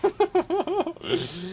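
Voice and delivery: a high, airy burst of laughter; high breathy laugh. Real, not acted. Laughing at his old video.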